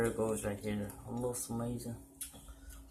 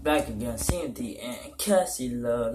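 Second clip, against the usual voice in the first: loud energetic channel opener; hyped intro; 6 dB louder, slower than usual. Real, not acted. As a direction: pump up the viewers.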